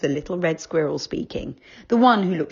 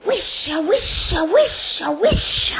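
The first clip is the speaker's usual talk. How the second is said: high, louder rising chant; loud trees calling; 13 semitones higher, 7 dB louder, much slower than usual. Acted. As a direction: call it out like wind in the leaves. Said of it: "said the trees loudly".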